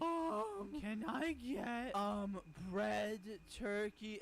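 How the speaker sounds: put-on a tiny kid unsure at the counter; little kid ordering.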